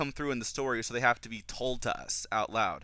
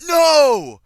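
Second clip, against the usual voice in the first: high, drawn-out shouted protest; loud involuntary outcry; 18 dB louder than usual. Retold or imitated. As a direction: yell it out in horrified disbelief. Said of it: "out loud".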